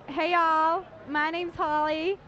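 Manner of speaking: putting on a Texas drawl, stretched out; Texas accent. Pretend. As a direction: try on a Texan accent for the host. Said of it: "in a Texas accent, just say your name".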